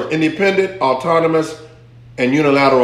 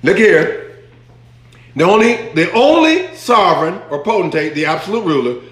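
ordinary talk

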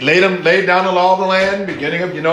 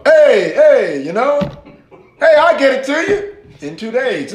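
Fonz; 6 semitones higher than usual. Retold or imitated. Student breezily putting off the professor over a late paper, cool-guy impression. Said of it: "this dude sounded like the Fonz".

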